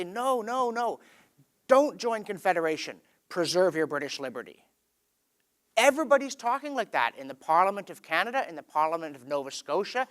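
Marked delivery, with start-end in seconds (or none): 0.0-4.6 opposing debater. Retold or imitated. Someone across the aisle answers Confederation's supporters, mildly acted rebuttal. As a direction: counter the other side firmly, pitch falling. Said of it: "someone on the other side of the aisle will say".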